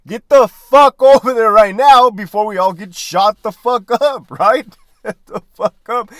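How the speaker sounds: loud, urgent battlefield command; urgent shouted order. Retold or imitated. Sergeant yelling at a soldier under fire, loud and urgent. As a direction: bark it like bullets are flying.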